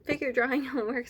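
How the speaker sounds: fast, laughing through words. Real, not acted. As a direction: laugh as you remember. Laughs remembering homework.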